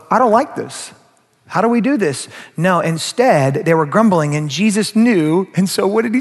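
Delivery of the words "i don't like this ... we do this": higher-pitched objection; complaining disciple. Acted. Disciples openly objecting to Jesus, higher complaining voice. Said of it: "come out and go".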